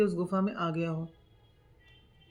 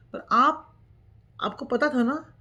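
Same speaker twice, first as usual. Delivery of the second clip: higher and louder, voice breaking; tearful son; 5 semitones higher, 6 dB louder than usual. Retold or imitated. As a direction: cry out the question to the father. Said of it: "तो बेटा रो पड़ा".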